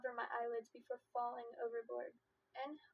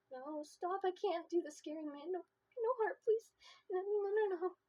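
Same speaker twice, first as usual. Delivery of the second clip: higher, tearful, breaking into sobs on heart; crying plea; 7 semitones higher, 5 dB louder than usual. Acted. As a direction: sob through the no's. Frozen, overtaken by emotion, crying.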